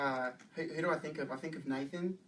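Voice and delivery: tentative Australian accent; conversational Aussie English. Shown as a demonstration. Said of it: "It's Australian accent".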